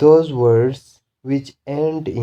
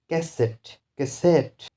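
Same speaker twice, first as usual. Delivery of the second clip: cassette, higher, with SETTE stressed; stress on suffix; 4 semitones higher than usual. Shown as a demonstration. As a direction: push the last syllable of cassette. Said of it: "the stress will be on these suffixes".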